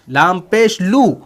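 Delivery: slow "लाम पेश लू", long final "लू"; pesh spelling demo. Shown as a demonstration. Teacher reminding what was read, slow "लाम पेश लू". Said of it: "आपने लू पढ़ा है".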